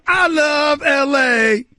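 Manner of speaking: drawn-out shout over the music; hyped slow declaration. Real, not acted. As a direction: belt it out slowly like a hype man. Radio host shouting over music.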